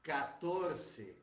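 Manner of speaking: teaching the Spanish form; Spanish word. Shown as a demonstration. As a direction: say "quatorce" the Spanish way. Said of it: "que em espanhol é".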